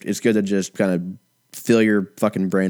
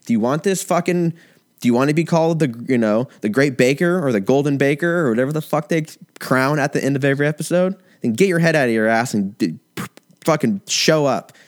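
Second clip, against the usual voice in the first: mock armchair judge rant; 5 semitones higher than usual. You're like.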